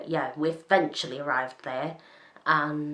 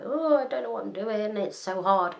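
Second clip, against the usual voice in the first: higher-pitched mock helpless moan; mock flustered; 5 semitones higher than usual. New driver mimics herself struggling on windy roads, mock flustered. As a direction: imitate an overwhelmed new driver. Acts out her own flustered driving.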